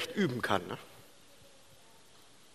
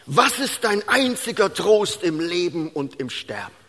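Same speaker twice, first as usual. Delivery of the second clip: ordinary talk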